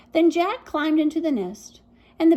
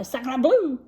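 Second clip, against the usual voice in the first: duck's cry. Acted. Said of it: "she cried".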